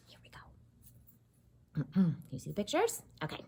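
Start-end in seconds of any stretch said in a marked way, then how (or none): 0.1-2.0 slow breathy hush to open the story; slow whisper. Shown as a demonstration. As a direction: whisper it slowly, building suspense. Teacher restarts, hushed for effect.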